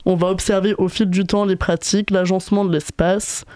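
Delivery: raspy sore-throat voice; hoarse voice. Real, not acted. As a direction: speak through a sore throat. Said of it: "c'est pas ma voix normale, j'ai une angine".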